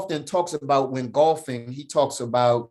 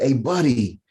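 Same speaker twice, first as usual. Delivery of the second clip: slow, higher mock advice; the hit guy; 5 semitones higher, 4 dB louder, slower than usual. Hit golfer advising the newbie, slow higher mock voice. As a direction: drawl out the advice on yelling four. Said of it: "He said".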